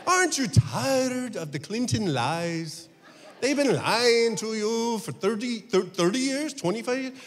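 a hint of an Italian accent, chanting lie; mild Italian cabbie, lie repeated in a singsong; Italian taxi driver accent. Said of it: "This is my Italian taxi driver".

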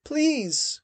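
high, pleading cry; a terrified maid crying out please. A narrator's reading. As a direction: beg through rising panic. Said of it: "cried one of the maids".

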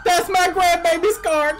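high, loud shriek of a robbed granny; screaming. Acted. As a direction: scream after the car thief. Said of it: "I've got you screaming at me".

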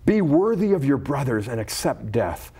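measured, solemn reading of a scripture story. Acted. Reads scripture story aloud.

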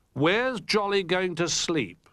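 high, slow curious question; Rabbit voice. Acted. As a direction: ask it wide-eyed. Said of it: "asked Rabbit".

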